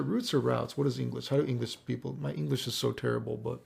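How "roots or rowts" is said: first "routes" like "roots", second "routes" rhyming with "outs"; questioning two pronunciations of routes. Real, not acted. Streamer asking himself about English, "routes" as roots, then rowts. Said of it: "Is it routes or routes?".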